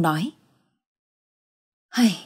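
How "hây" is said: soft, resigned sigh. A narrator's reading. Husband sighing after hearing his wife's account, resigned. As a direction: let out a small heavy sigh. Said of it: "liền khẽ thở dài lắc đầu".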